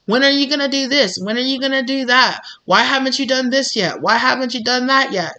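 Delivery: mock impatient family interrogation; mock nagging. Voicing nagging family and society.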